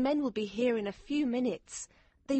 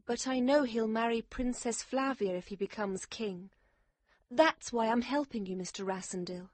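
high, sorrowful explanation; sad woman; 14 semitones higher, 3 dB quieter than usual. A narrator's reading. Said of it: "she said sadly".

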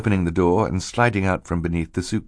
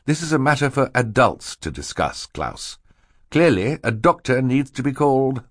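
higher, officious reproof; dismissive banker; 7 semitones higher than usual. Acted. Mister Poe tells Klaus adults will decide, officious. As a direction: shut the child out of it.

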